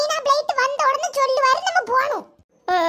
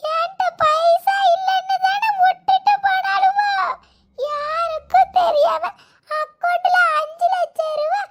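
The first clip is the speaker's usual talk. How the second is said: crying; 4 semitones higher, slower than usual. Acted. Grandma wails, left off trip.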